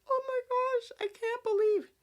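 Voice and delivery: put-on high, breathless gushing girl voice; high mock-shocked squeal; mocking Tessa. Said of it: "Tessa is now like".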